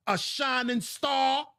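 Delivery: drawn-out mocking disbelief, slow; sarcastic question. Real, not acted. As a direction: ask it as a slow scornful joke. Sarcastic question about boy's future.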